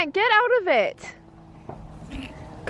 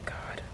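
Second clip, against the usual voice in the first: gasp; 20 dB quieter than usual. Real, not acted. Fireworks too close, gasping.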